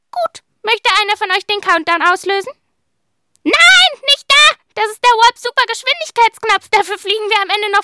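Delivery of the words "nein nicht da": loud urgent no, not that one; sudden warning shout. Acted. Warning the children off the wrong button, loud and urgent. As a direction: stop them before they press it.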